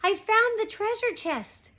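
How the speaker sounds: very high-pitched exclamation; excited cry. A narrator's reading. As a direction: announce a thrilling find. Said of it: "cried Jack".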